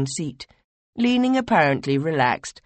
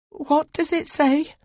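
higher, slow and urgent; urgent question; 14 semitones higher than usual. Acted. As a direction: demand the answer, anxious. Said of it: "you asked urgently".

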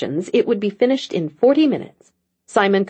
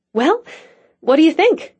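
eager; 9 semitones higher, 3 dB louder than usual. Acted. Bringing levity, showing the table.

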